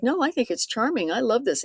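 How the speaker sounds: imitating charmed reply. Voicing smitten man's reply.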